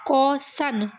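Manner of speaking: कॉसन parted into कॉ and सन; sounding out. Shown as a demonstration. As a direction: pitch up slightly and separate the two syllables of कॉसन. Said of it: "ये कॉ है".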